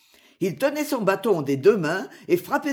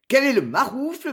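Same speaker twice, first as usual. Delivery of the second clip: higher, sharper challenge; crying out; 6 semitones higher, 3 dB louder than usual. A narrator's reading. Robin challenges the charging tinker, loud cry. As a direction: challenge the rude attacker. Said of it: "m'écriai-je".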